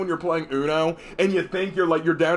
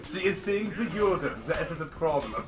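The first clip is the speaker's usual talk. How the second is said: mock German accent; 3 dB quieter than usual. Echoes joke in German accent.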